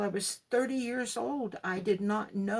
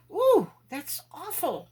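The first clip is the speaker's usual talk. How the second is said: slow, higher, louder dismayed ooh; horrified exclamation; shocked; 8 semitones higher, 7 dB louder, slower than usual. Retold or imitated. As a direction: recoil at what you see. Her shocked reaction to vision.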